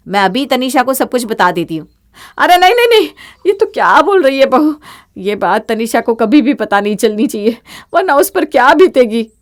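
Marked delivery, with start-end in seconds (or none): 2.4-7.0 panicked plea. Acted. Mother-in-law frantically stops bahu. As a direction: beg her to stop.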